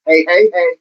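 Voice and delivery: lightly voiced sitcom catchphrase; quick, even sitcom-style heys; a hint of TV catchphrase delivery; Good Times catchphrase. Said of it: "like, as in Good Times?".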